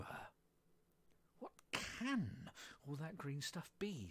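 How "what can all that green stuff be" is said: slow, higher-pitched wondering question; baffled wonder. Acted. Alice gazes down at a sea of green leaves, baffled. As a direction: draw out the bewildered question.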